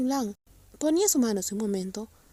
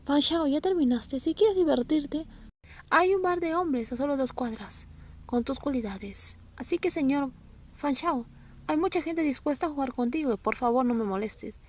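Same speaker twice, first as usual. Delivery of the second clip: angry shout. Acted. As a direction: shout him down in fury. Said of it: "Se dio la vuelta y gritó".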